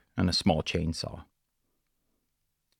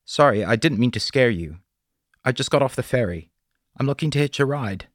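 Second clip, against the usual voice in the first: polite stranger voiced higher, friendly; a young drifter politely asking a favour; higher, apologetic hitchhiker voice; young traveller; 6 semitones higher, 4 dB louder than usual.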